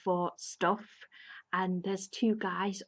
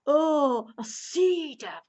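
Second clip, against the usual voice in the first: higher, louder startled cry; mock alarm; 6 semitones higher, 6 dB louder, slower than usual. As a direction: gasp it out in hammed-up alarm. Guy spots sea devil.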